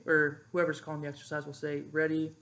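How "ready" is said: command voice. Shown as a demonstration. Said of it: "the pifo will say".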